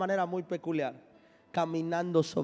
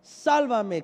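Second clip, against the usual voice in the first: crying out; 3 semitones higher, 5 dB louder, much slower than usual. Acted. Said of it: "Dio voces diciendo".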